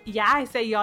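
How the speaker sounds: put-on Southern accent. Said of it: "worst Southern accent I could have ever done".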